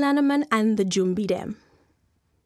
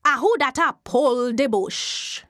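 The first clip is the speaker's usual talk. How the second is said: Jumbie voice; 3 dB louder than usual. Acted. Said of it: "he hear a voice say".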